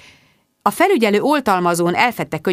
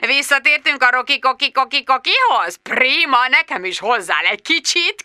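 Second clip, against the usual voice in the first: higher, lightly giggling mockery; giggling boss; 7 semitones higher than usual. Richard Finch giggling at Bridget down the phone. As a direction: chuckle through the joke.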